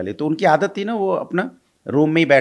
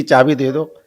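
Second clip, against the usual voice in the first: pleading for the keys; 4 dB louder than usual. Retold or imitated. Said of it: "मिन्नतें की थी".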